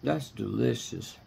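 savoring out loud, delighted; loud yummy mmms. Real, not acted. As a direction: hum with pleasure over the food. Tasting salad, loud mmms.

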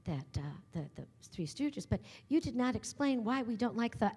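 lightly imitated Texas lady, hesitant; a hint of genteel Texas accent; classy Texas accent. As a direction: elegant Southern questioner feeling for words. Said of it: "classy Texas".

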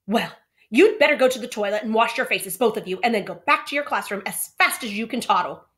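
put-on funny old-fashioned way. A narrator's reading. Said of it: "in her funny, old-fashioned way".

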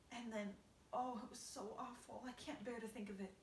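lightly voiced fretful spider lady; Miss Spider, upset. Miss Spider tells the centipede about her grandmother, lightly voiced. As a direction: tell it like a sad family tragedy.

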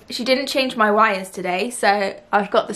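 speaking past fingertip; finger on lip. Real, not acted. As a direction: lip lightly pressed. Seen 2: Fingertip rests on lower lip while speaking; gone at -1.0.

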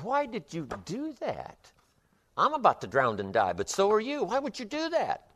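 high, disbelieving cry of a drowning frog; desperate frog. Acted. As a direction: squeal it out in despair. Drowning frog asks scorpion why.

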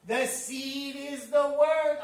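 slow, weighty stress on "the seed is the word"; emphatic. Real, not acted. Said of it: "I wanna emphasize that".

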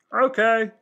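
high shouted eager okay; loud okay. Acted. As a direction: yell it out eagerly.

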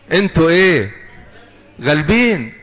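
rally the congregation to answer; rousing call. Real, not acted. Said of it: "call and response to congregation". (الواعظ يهتف بالسؤال للجماعة بصوت عالي)

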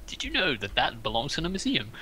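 soft, seductive curator voice; sexy voice. Acted. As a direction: purr it softly to charm. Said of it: "because it's in a sexy voice".

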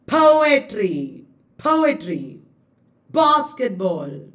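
poetry, basketball with first syllable strongest; dactylic stress. Shown as a demonstration. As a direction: hit POetry, BASketball on the opening beat. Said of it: "Dactylic is".

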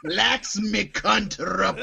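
"Laxmi Kunt Rapuj" said slowly, Kant turned into Kunt; slow, mocking mispronunciation of "Laxmi Kunt Rapuj"; mispronounced name. Shown as a demonstration. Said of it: "hoping you were gonna pronounce it Laxmi Kunt".

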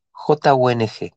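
J U N G deletreado despacio; deletreo lento. Shown as a demonstration. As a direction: deletrea J U N G letra por letra, lento. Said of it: "El mantra dice así". (deletreo pausado)

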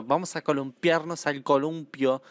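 slow, careful neutral Latin American Spanish; imitating neutral Spanish. Comedian mocking cousins' TV accent, neutral Spanish. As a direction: mimic the kids' neutral TV Spanish, slowly. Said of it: "entonces hablan neutro".

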